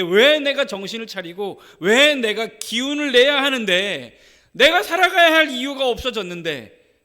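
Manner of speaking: a grieving mother railing against being told not to cry; anguished protest. Acted. Widow who lost her son, crying out in anguish. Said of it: "이런 생각을 했겠죠".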